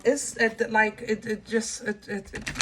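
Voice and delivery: stammering, stuck on it; real stutter from anger. Real, not acted. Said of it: "I'm stuttering again".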